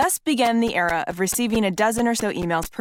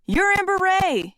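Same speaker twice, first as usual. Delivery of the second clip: higher, slow mock yell; retold yell; 11 semitones higher, slower than usual. Rich spotting her at the event, a mock yell. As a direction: call out her name across the room, hammed. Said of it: "he yelled when he saw me".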